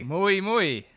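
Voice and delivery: fake foreign language. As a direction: toss off "Muy, muy" like jokey French. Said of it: "That's not French".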